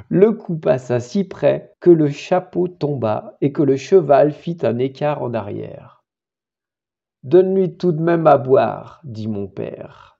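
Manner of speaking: narrative verse, deliberately phrased; dramatic poem recitation. Acted. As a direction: recite a battlefield tale in verse. Récite le poème. (récitation de poème narrative)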